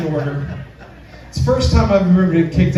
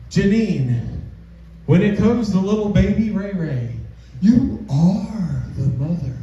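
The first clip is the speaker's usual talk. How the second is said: talk-show host. Retold or imitated. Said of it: "On the Maury Povich show".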